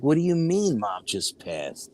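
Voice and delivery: slow, stunned questioning; siblings' disbelief. Retold or imitated. Siblings hearing that Mom just died, slow and incredulous. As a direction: stretch the question in mild disbelief.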